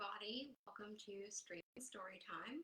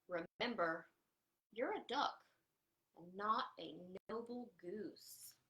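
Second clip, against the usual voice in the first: indignant goose. Acted. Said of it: "flapped her wings indignantly".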